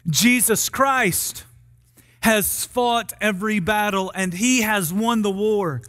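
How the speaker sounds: deliberate herald's declaration with weighty pauses; solemn announcement to the people; gospel proclamation. Acted. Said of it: "his gospel would have read more like this".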